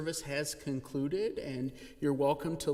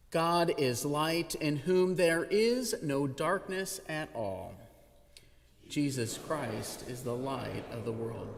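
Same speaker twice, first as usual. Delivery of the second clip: liturgical call to worship. Acted. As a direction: proclaim it to the congregation like a call to worship.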